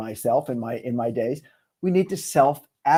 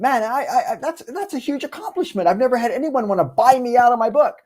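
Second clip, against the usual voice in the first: higher, excited disbelief; thrilled higher voice of self-belief; self-advocacy; 8 semitones higher than usual. Retold or imitated. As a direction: lift the voice in proud amazement. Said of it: "My advocacy was".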